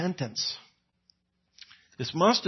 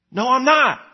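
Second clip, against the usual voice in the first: higher, louder quick refusal; loud denial; 9 semitones higher, 7 dB louder than usual. Retold or imitated. Peter loudly refusing to the bystander's accusation. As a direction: snap back a flat no.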